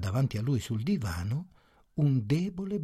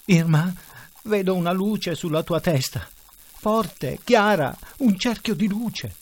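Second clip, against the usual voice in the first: agitated insistence; 6 semitones higher, 4 dB louder than usual. A narrator's reading. Husband insists he sees light.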